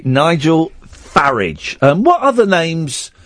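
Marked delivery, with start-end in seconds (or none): 0.1-1.8 "Farage" said FARR-ij, slowly; slow front-stressed "Farage", ending in ij; Farage like garage. Shown as a demonstration. Host confirming the rhyme, Farage as FARR-ij. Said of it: "Farage rhymes with garage".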